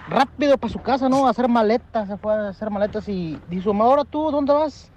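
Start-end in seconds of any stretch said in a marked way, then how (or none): 3.7-4.9 high, surprised mom asking; mock mother, pitched up high; a hint of a nagging mom; mother's voice.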